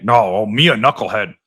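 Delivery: a lightly voiced dopey Walz; lightly mimicking a self-mocking politician; mock Tim Walz. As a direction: play dumb in a mild mock voice. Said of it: "This is what Tim Walz always said".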